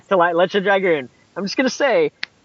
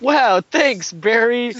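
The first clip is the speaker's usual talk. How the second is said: bad acting; 4 semitones higher, much slower than usual. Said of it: "this acting is terrible".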